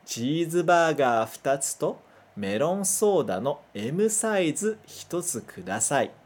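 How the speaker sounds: careful Japanese read-aloud; Japanese sentence reading. Shown as a demonstration. Teacher modelling a fast-food order for students. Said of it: "E um tamanho M".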